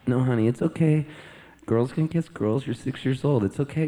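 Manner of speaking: lightly voiced mom soothing a child; gently reassuring. Sister comforting her crying daughter, reassuring.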